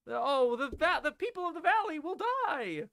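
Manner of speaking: high, wailing mock lament; hammed-up damsel dismay; mock distress. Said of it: "Instead of, like, taking pos-, ownership".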